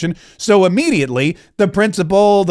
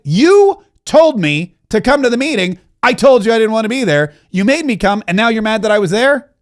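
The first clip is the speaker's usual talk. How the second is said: indignant retort; 2 semitones higher than usual. Retold or imitated. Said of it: "And I would be like".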